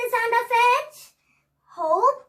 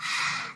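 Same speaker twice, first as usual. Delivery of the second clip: breathy sigh; 7 dB quieter than usual. Shown as a demonstration. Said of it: "It's like".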